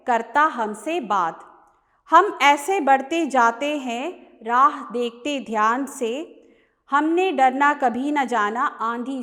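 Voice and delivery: measured Hindi verse reading with rhythmic line breaks; poem recitation. Acted. Teacher reading the short poem to students, poem recitation. Reads the poem aloud to class.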